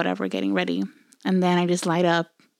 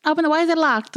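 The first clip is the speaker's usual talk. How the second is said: pitched-up fake innocent voice; playing dumb; 8 semitones higher than usual. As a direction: squeak it out, feigning innocence. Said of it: "And I was like".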